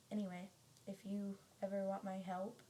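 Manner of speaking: strained, fading voice; losing voice. Real, not acted. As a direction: voice going hoarse and thin. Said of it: "I'm losing my voice".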